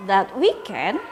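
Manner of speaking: lively storybook narration for pupils; reading to children. A narrator's reading. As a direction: read it aloud like a teacher to her class. Teacher reads story to pupils.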